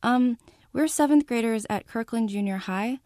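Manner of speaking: bright, eager sales pitch. Acted. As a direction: pitch it sweetly to a stranger. Girls pitching a fake donation.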